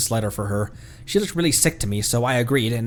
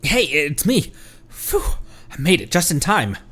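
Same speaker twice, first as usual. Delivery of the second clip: normal talking voice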